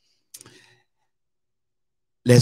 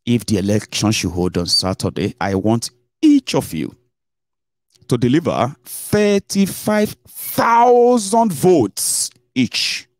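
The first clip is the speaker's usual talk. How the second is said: mock boss's order; 3 semitones higher, slower than usual. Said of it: "he called a meeting".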